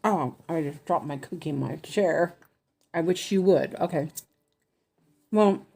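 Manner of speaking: talking while crunching; words around a crunchy bite; crunching chips. Real, not acted. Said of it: "sorry, I'm crunching".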